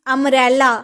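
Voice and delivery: अम्ब्रेला said loud, opening vowel clearly sounded; teacher sounding out अम्ब्रेला, vowel first; vowel sound demo. Shown as a demonstration. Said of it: "ओ आ रहा है ना sound".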